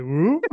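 quick whoop for a tipping cart; imitated whoop. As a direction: let out a little comic whoop.

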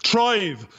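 Irish "Thrive" with the TH as a hard T; Irish accent. Real, not acted. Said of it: "that's me Irish accent with a T H".

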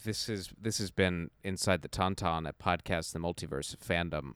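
quiet sign-off in a borrowed voice; lightly imitated Alyssa. Co-host filling in to end the show, light imitation. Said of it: "you sound just like".

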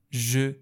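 "ژ" as French je, with rounded eu after it; French vowel sound. Shown as a demonstration. Teacher giving an example of e, French-style "ژ".

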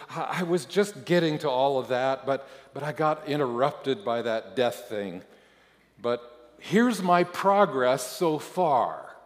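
high, loud, flustered outpouring; blurted apology. A narrator's reading. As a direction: blurt it out in an over-eager, apologetic rush of excuses. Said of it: "I blurt out".

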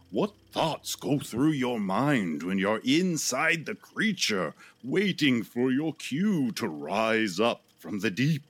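lightly voiced TV interviewer. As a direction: ask it like an old TV host. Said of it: "talking to this stunt person".

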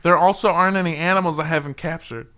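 deadpan sincere boast; sincere quote. Retold or imitated. Retelling the child's boast in complete sincerity. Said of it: "That's how he said it".

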